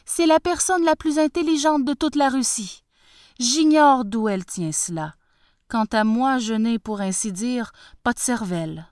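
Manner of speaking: high, loud humble peasant voice; bow and scrape to the tsar; humble farmer. Acted. Farmer boasting of his daughter.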